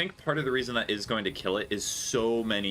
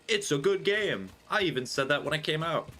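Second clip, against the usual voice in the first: high-pitched emphatic protest; exasperated insistence; 9 semitones higher than usual. Real, not acted. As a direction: pitch jumps up, insisting indignantly. Defends a game against controversy.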